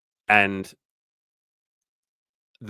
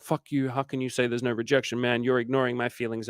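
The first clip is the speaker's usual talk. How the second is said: higher-pitched imitation of an offended guy; mock offended anger; 4 semitones higher than usual. Imitating guys offended by his dating advice, mock pissed off. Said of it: "really pissed off".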